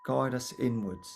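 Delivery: calm, unhurried guiding voice with long pauses; guided meditation. Acted. Meditation teacher guiding attention to the breath, calm guiding voice. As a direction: gently lead the listeners inwards, pausing between phrases.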